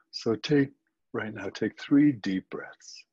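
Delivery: unhurried guiding voice with long pauses; calm body-scan guidance, leaving space between phrases; guided meditation. Acted. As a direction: lead listeners gently through it, phrase by phrase.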